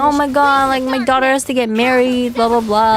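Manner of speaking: lightly imitating a worried, fretting mother; freaking-out mom. Streamer retells mom fretting about her daughter marrying, mock freak-out. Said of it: "My mom is freaking out".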